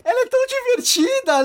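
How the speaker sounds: high, gushing praise; tipsy gushing. Retold or imitated. Drunk speaker pointing at sister.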